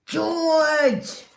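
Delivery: high loud call of the name. Acted. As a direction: call him sharply across the room. Poppy calls the kitten.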